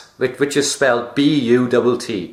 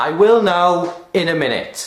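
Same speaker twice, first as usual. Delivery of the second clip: higher-pitched reply to a nag; acted put-off reply; 6 semitones higher, faster than usual. Answering mum about cleaning the room, high-pitched put-off. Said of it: "I will say something like this".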